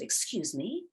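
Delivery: put-on half-hearted American accent broken by laughter; a laughing stab at an American accent, pitched high and loud; attempted American accent. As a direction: try an American mum's accent and laugh through it. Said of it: "I can't do the American accent".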